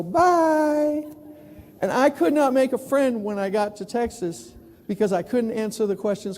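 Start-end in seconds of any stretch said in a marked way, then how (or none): 0.0-1.0 higher, clipped-off goodbye; curt dismissal. Retold or imitated. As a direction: brush him off high. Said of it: "they go".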